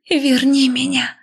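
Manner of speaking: жаркий умоляющий шёпот; ardent whispered plea. A narrator's reading. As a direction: beg it passionately, drawn out. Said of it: "жарко зашептала я".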